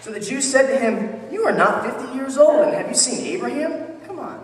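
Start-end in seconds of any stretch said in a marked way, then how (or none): 1.3-4.4 higher-pitched mock disbelief; incredulous challenge. The Jews answering Jesus' claim about Abraham, incredulous. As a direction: challenge an absurd claim, voice lifting.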